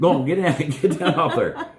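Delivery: loud, high command, half laughing; commanding the dog. Real, not acted. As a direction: order the dog down. Ordering dog off furniture.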